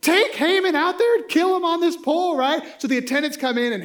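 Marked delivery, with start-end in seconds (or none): 0.0-2.4 higher, louder royal command; higher, louder stern king. Retold or imitated. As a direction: order the execution with authority. King orders execution.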